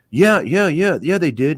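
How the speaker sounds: high, quick insistent yeah yeah; mock eager excuse. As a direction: protest too eagerly. Voicing naked man's excuse.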